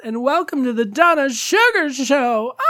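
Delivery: high, breathy showbiz hostess voice; breathy vintage purr. Pretend. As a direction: purr like a vintage glamour host. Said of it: "this voice".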